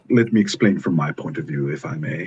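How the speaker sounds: plummy put-on British voice; mock British accent. Friend teasing him for his fake British accent. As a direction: Let me explain in a mock posh British accent. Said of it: "Get rid of that British accent".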